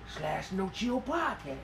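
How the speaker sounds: slow, soft dramatic plug; lightly voiced dramatic plug; brooding actor plug. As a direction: mumble the plug like a TV hero. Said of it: "tell 'em like this".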